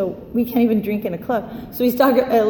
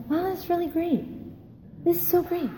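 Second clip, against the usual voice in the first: mock enthusiasm; 7 semitones higher, 9 dB quieter than usual. Fake politeness in AA meetings.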